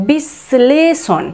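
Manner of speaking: বিশ্লেষণ said very slowly, the শ held long as if doubled; বিশ্লেষণ as "bish-shleshon", slow with a long sh. Shown as a demonstration. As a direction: drag out বিশ্লেষণ, leaning hard on the শ. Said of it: "শয়ের উচ্চারণ জোরে হবে একটু বা শয়ের উচ্চারণ দুবার".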